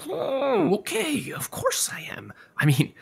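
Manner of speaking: unvoiced whisper, conspiratorial; whispered confession. Vet confessing the lie to Josie, whispered. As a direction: let it slip in a whisper.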